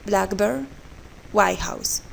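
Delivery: "blackbird", "White House" as compounds, first part strong; stress on first part. Shown as a demonstration. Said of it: "The stress is on the first part".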